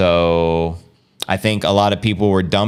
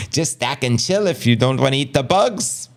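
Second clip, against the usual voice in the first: higher-pitched, hammed-up Australian accent; terrible Australian accent; 5 semitones higher than usual. Shown as a demonstration. Host performing a listener's requested line, bad Australian accent. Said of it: "Aussie accents say".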